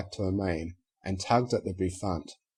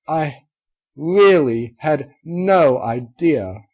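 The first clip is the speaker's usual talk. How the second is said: tearful; 6 semitones higher, 9 dB louder, much slower than usual. Acted. Unicorn apologizes, moved.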